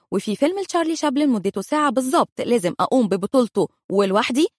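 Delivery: ordinary delivery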